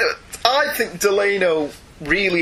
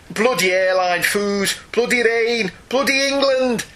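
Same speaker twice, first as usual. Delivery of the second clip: rising Cockney rant, higher with each line; hammed-up Cockney grumble climbing higher; mock Cockney; 7 semitones higher than usual. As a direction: reel it out from the back of the throat, stage Cockney. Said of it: "reeling it out the back of my throat".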